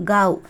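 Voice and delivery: காவ் as one syllable, "gaav" with a g; Hindi pronunciation. Shown as a demonstration. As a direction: model காவ் with a voiced g, gaav. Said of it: "அப்படின்னு pronounce பண்ணணும்". (காவ், இந்தி உச்சரிப்பில் "gaav")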